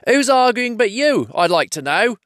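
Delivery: high troll retort. Acted. Tom keeps up the quarrel.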